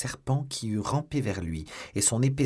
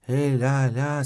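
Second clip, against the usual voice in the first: loud, higher challenge; raised, protesting shout; crying out; 5 semitones higher, 8 dB louder, much slower than usual. A narrator's reading. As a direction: call out to stop an intruder. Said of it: "s'écria-t-il".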